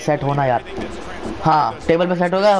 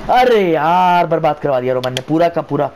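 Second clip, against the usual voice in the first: annoyed. Real, not acted. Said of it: "थोड़ा चिढ़ गया".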